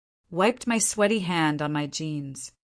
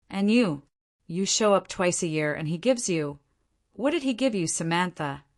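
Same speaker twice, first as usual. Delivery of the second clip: jealous rant. Acted. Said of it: "she demanded".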